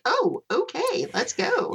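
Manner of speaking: high, slow mock surprise. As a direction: play along in a high, drawn-out voice. Retold answer to hurry up.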